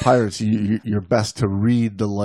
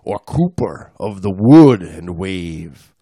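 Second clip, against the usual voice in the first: poem reading; 2 semitones lower, slower than usual. Acted. Reads a poem aloud.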